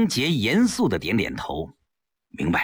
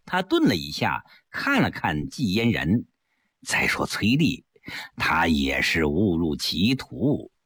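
lower, sly persuading voice; lightly voiced scheming husband; 4 semitones lower than usual.

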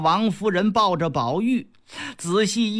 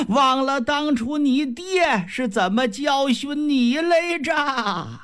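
high, scornful scolding that climbs higher; furious grandmother; 4 semitones higher than usual. Acted. Old grandmother scolding her son over the beating, high and scornful.

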